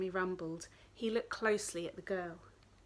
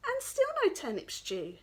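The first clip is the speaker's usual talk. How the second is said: high plaintive whine; hungry wolf complains; whining wolf; 12 semitones higher than usual. Acted. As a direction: moan about the stew.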